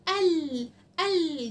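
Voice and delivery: insistent, repeated "ال" in mild mock temper; mock worked-up "ال". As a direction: act out a cross letter pair pushing out "ال". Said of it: "وكانت متعصبة عمالة تقول".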